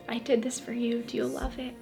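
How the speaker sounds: gently, barely voiced; tender whisper. Jesus tenderly showing his gifts.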